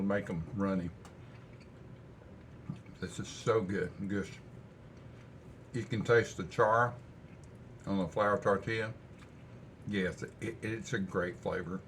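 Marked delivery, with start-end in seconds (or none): 3.0-11.8 talking with his mouth full. Real, not acted. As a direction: chew and talk through the food. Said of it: "I hate talking with my mouth full".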